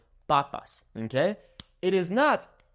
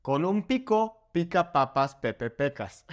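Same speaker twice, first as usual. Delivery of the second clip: careful model. Shown as a demonstration. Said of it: "focus on the vowel sounds".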